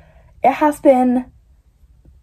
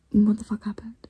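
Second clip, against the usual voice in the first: hushed whispered lament; whisper, late at night. Real, not acted. Vlogger sad about Kenji at night, whispered.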